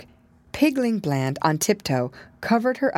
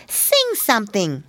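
demanding; 5 semitones higher than usual. Acted. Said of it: "she demanded".

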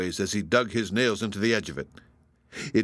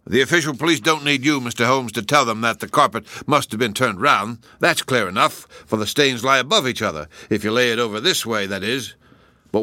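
Lestrade voice; 2 semitones higher, 5 dB louder than usual. Acted. Lestrade's long speech.

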